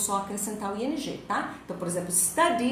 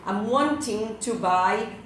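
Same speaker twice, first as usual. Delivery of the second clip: slow, louder awkward phrase; slow, stressed example; 6 dB louder, much slower than usual. Shown as a demonstration. Teacher showing students a wrong-sounding sentence, slow and louder. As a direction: drag out the odd-sounding example.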